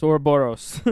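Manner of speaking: Ouroboros as OR-uh-BOR-ohs; Ouroboros said carefully. Shown as a demonstration. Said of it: "how to pronounce".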